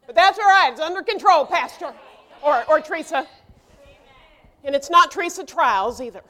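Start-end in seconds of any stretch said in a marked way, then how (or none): 0.0-3.3 confident reassurance. Shown as a demonstration. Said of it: "And this is".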